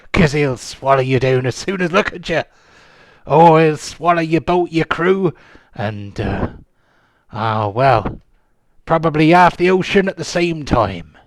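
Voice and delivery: lightly voiced old sea dog; a hint of a grizzled pirate. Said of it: "my pirate voice".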